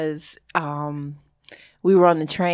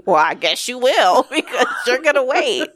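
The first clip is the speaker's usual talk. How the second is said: higher-pitched, amused mock retort; laughing retort; 6 semitones higher, 4 dB louder than usual. Sister answering her son's guilt trip, laughing unbothered comeback. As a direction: toss it back through laughter.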